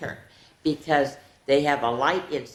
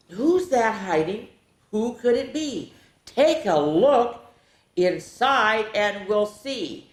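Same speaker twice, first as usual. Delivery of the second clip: spooky storyteller; 6 semitones higher, 3 dB louder, slower than usual. Shown as a demonstration. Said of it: "I go".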